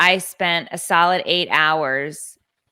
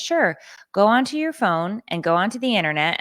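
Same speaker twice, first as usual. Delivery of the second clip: lightly voiced clerk, higher pitch; mock store clerk; 4 semitones higher than usual. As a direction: imitate an unhelpfully agreeable employee. Acting out breezy store clerk.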